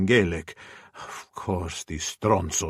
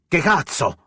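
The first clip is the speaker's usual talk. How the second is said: sharp startled bark, much higher and louder; 8 semitones higher, 4 dB louder than usual. Acted. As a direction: snap it out at the intruder. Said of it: "I barked".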